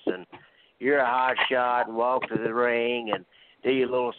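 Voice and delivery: trash-talking wrestler promo; lightly voiced heel promo; wrestling promo. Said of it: "I'm gonna cut a promo".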